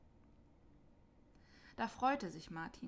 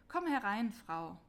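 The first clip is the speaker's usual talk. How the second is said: louder friendly call to the street; 4 dB louder than usual. Acted. Martin calls the freezing mother inside, louder friendly call. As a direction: call her in, kindly but loud. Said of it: "rief Martin ihr zu".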